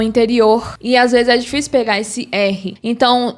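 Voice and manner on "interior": "interior" with a breathy h-like final R; other Brazilian R accent. Shown as a demonstration. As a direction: end "interior" on a guttural Brazilian R. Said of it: "ou se não".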